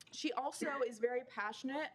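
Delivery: talking with gum in mouth; words round a wad of gum; chewing gum. Real, not acted. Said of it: "Sorry, I have gum in".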